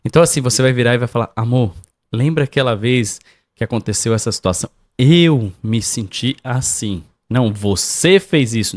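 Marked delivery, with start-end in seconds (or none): 1.4-7.0 calm tone, gentle. Shown as a demonstration. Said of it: "Fale, "Eu me senti".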